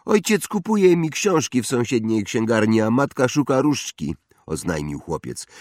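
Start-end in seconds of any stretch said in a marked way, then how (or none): 0.0-4.1 put-on snobbish boy. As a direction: play a spoiled rich boy. Draco voiced, higher boy. (wyższy głos zarozumiałego chłopca)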